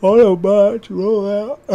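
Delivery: loud, high heroic robot commander; Optimus Prime voice. Retold or imitated. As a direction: boom out a hammy Optimus Prime call. Quoting Optimus Prime line.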